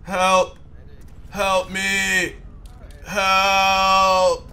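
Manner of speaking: high mock pleas for help; man down shout. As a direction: call out like a wounded man. Downed character calling for help.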